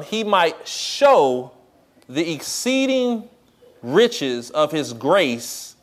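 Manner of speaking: slow, deliberate reading of a Bible verse; slow scripture reading. Acted. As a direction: read each phrase slowly, with weight.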